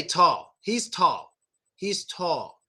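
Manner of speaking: "tall" ending in a slight W sound; native "tall". Shown as a demonstration. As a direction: let "tall" end without a full L. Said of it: "we kinda make a W sound".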